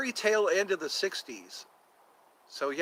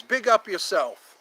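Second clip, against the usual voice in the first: Ali G impression; 4 semitones higher, 3 dB louder than usual. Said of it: "Like Ali G says".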